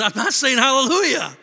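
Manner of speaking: retold irritated refusal. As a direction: snap back, annoyed. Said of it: "I'm, like, kinda irritated".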